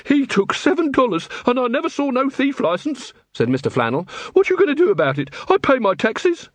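high, complaining tradesman voice; a put-upon shopkeeper grumbling; Mister Flannel complaining to the watch; aggrieved shopkeeper. A narrator's reading.

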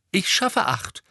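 high, loud, puffed-up announcement; boastful. A narrator's reading. Ernie bragging to Ron about revision, boastful. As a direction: show off proudly. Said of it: "warf sich in die Brust".

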